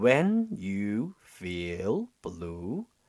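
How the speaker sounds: very slow, every sound exaggeratedly overarticulated. Shadowing practice example sentence in english: very slow, exaggerated articulation. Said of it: "用超级慢速、夸张的口型、夸张的声音去进行模仿。比如说像这样".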